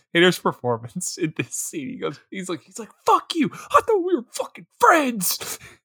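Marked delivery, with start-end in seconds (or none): 3.1-5.6 mock, raw, very high, emotional crying outburst. Praising an actor's performance in a scene: imitating an emotional outburst. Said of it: "it's so emotional".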